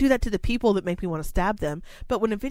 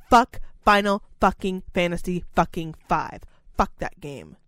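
slow curse. Real, not acted. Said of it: "to get that angry".

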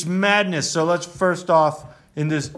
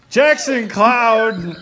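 announcer voice; 6 semitones higher, 6 dB louder, much slower than usual. Acted. Show intro name.

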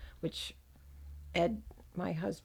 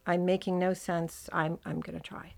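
lisping after dental surgery. Real, not acted. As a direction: lisp from a sore mouth. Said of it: "Please excuse my lisping. I've had dental surgery".

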